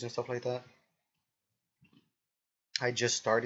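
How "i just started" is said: burp while speaking. Real, not acted. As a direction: talk through a burp. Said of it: "excuse me, I'm burping".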